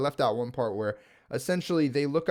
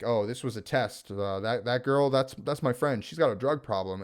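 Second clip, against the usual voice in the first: nonchalant. Retold or imitated. Christopher Waltz explaining the kidnapping away to the coder, all nonchalant. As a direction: toss it off like nothing happened. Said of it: "like, all nonchalant".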